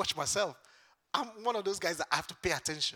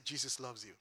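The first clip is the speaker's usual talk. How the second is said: hushed and gentle; 7 semitones lower, 9 dB quieter than usual. Retold or imitated. Restrained reply to spitting man.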